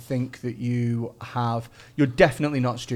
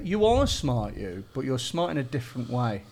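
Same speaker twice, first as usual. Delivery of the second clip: motherly reassurance; 4 dB quieter than usual. Real, not acted. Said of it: "You sound like my mum on the first day at school".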